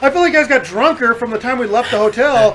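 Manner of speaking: talking through real laughter, pitch up; giggling out the question in disbelief; laughing incredulous question. Real, not acted. Laughing while recounting drunk friends.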